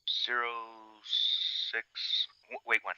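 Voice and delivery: tinny radio transmission voice; crackly military radio. Real, not acted. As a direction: read coordinates over a field radio. Grid reference read over radio.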